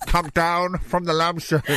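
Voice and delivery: mock police negotiator, laughing; hammed-up cop talking someone down. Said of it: "such a stupid image in my head".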